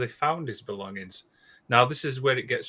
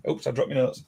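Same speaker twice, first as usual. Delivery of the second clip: put-on Canadian accent; faster than usual. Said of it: "It's you doing a Canadian accent".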